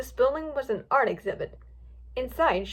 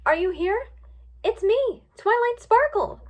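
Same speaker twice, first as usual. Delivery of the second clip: high-pitched searching call; 11 semitones higher, 5 dB louder than usual. A narrator's reading. Twilight looking for Pinkie, calling out. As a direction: announce yourself to someone out of sight. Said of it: "Twilight called".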